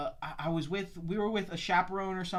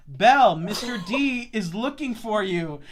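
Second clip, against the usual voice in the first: loud name, then slow spelled-out message; insistent phone message; 5 dB louder, much slower than usual. Retold or imitated. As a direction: get through a bad connection. Repeating message over phone.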